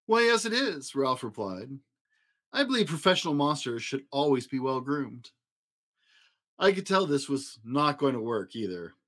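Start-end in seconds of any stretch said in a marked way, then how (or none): 0.1-5.3 high silky voice. Acted. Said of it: "high, silky voice".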